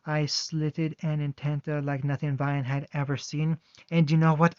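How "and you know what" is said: snarling question. Acted. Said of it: "low snarl".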